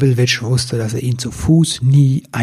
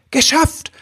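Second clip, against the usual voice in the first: triumphant. Acted. Elf lands on sleigh triumphant.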